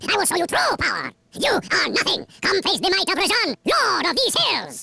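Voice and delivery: booming defiant rant; furious villain. Acted. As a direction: rage at the thieves from your throne.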